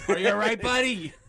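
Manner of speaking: high bright question to the man on the floor; mock concern. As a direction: fake reporter checking on him. Mock interviewer voice.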